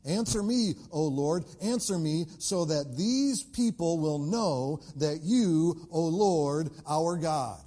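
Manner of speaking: loud, insistent plea to God; impassioned prayer. Retold or imitated. Elijah calling on God before the people, impassioned prayer. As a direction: cry out in prayer, stretching the key words.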